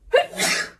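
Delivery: voiceless sneeze; acted sneeze mid-sentence. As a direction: sneeze again into the hand. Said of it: "a little bit of a sneezing fit".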